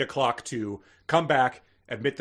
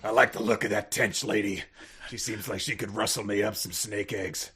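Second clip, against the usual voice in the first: Nolte impression. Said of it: "doing Nolte".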